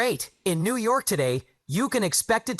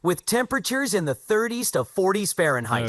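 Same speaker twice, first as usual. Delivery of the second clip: pleasant happy. Pretend. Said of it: "be happy and have a very pleasant".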